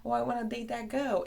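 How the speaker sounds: mocking naked contestants, eager gushing tone. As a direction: play a keen dating-show contestant. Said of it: "show up on T V and say".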